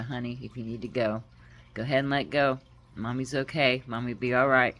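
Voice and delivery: soft, low words to a dying pet; tender permission. Retold or imitated. Mother telling her dying cat it may go, softly. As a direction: gently let her go, Mommy's here.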